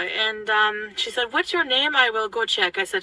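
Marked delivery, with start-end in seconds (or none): 1.3-2.8 put-on French Canadian accent. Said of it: "I'm just gonna try to imitate it".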